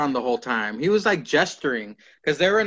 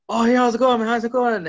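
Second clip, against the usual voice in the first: retold upbeat greeting; 7 semitones higher, 4 dB louder, faster than usual.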